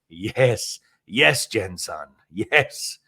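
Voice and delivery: a light, slowish wise-teacher voice; Pat Morita imitation. Mister Miyagi praising Jen from the side, lightly imitated. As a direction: mildly play the calm sensei approving. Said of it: "That's my Pat Morita imitation".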